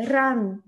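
ラン with an English r; English r in run. Shown as a demonstration. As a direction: start ラン with a curled tongue r. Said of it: "もう一回やって". (英語のrで「ラン」)

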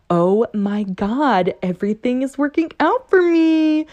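mildly giddy realisation; giddy excitement. Shown as a demonstration. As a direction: let the good news dawn on you. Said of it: "the tone of my voice right now".

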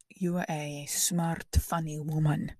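slow, drawn-out imitated Latin accent; Latin suitor accent. Comic imitating a flattering suitor, slow Latin accent. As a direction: stretch the compliment out in a Latin accent.

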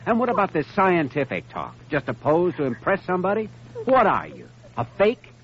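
angry accusation. Acted. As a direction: hammer her with each question, rising. Doctor confronts lying girl.

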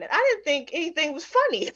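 normal talking voice

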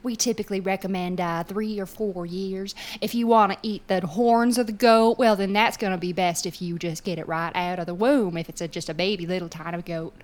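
put-on country server's accent. Restaurant server explains the goat menu to diners, in a put-on accent. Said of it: "That's why I put on that accent".

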